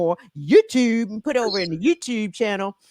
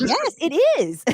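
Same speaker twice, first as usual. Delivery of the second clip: drawn-out laughing agreement; laughing yes; 10 semitones higher, 4 dB louder than usual. Real, not acted.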